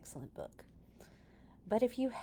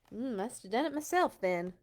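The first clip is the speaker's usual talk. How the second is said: muttered; 4 semitones higher, 5 dB louder than usual. Acted. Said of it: "muttered the farmer".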